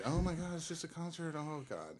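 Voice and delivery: mock sarcastic oh my god. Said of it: "we're all just kinda going".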